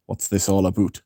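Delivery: lightly put-on Canadian accent; Canadian "aboot" on about; mock Canadian. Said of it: "Canadian accent is so Eugene".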